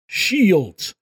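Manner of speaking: sharp, high, loud order; shouted command. Acted. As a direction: bark it across the deck. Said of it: "Ostrand's voice rang out".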